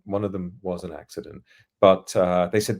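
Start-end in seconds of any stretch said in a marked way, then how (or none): 0.0-1.4 quiet aside. Shown as a demonstration. Repeating the school joke, soft deadpan aside. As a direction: mutter it again as a wry aside.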